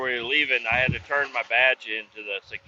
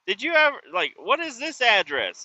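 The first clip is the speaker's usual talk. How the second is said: high quizzical retelling; 7 semitones higher than usual. Retold or imitated. Quoting himself asking worker.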